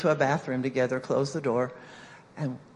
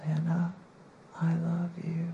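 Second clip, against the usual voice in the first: small, hesitant imitation of a timid girl; barely a whisper; 5 dB quieter than usual. Girl's first try at the mirror, timid and quiet. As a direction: say it softly and evenly, hardly believing it. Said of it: "this is how she said it".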